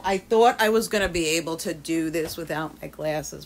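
usual speaking voice

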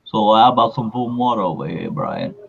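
lightly voiced film boxer; a hint of boxer impression; Rocky Balboa. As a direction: plead casually as a movie boxer. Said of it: "that was a terrible impression right there".

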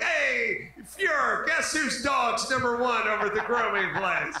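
Eva Braun bragging about the dog to Hitler; mock proud Eva Braun. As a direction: gush to the Fuhrer about the dog. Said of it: "she'd be like".

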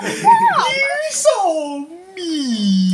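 squealing through laughter, very slow; laughing. Real, not acted. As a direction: laugh it out, high. Laughing at friend.

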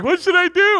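mock pleading voice pitched high; lightly imitating a weepy plea for help; high mock whimper of a woman in his office; tearful young woman. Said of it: "they look at me through tears like".

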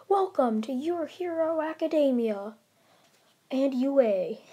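slow, emphatic heroic announcement; lightly voiced grand hero, stretching out the words; All Might. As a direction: proclaim it slowly, like a proud mentor. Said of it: "he sees All Might pop out".

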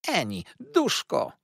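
high, loud, slow outraged cry; mother thundering at her kneeling daughter; thundering call. Acted. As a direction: boom out her name in outrage. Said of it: "zawołała grzmiąco".

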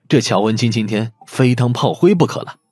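usual speaking voice

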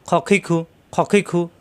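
খ, খি, খু in a quick run, rounded vowel on খ; thick, not thin. Shown as a demonstration. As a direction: rasp খ, খি, খু from the throat with short vowels. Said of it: "খা হবে না". (ছোট করে মোটা স্বরে খ, খি, খু)

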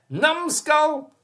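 high, loud cackling shriek; cackling goat woman. A narrator's reading. The goat woman cackles at the mayor, high and loud. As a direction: cackle it out at him. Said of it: "she cackled at the mayor".

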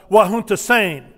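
Wahunta Sane said clearly with a falling Sane; formal Twi greeting. Shown as a demonstration. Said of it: "a formal greeting of".

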